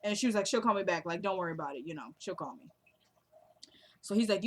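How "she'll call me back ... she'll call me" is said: imitating easy reassurance, trailing lower and softer; unworried. Sister reassures him about the unanswered call, unworried. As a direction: brush the worry off, letting it sink away. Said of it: "how she said it".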